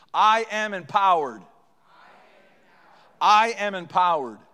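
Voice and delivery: loud, deliberate, phrase-by-phrase recitation; clear group declaration. Shown as a demonstration. Preacher leading the congregation to say it with him, loud and clear. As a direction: proclaim it firmly so a crowd can join in. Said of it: "Say it with me".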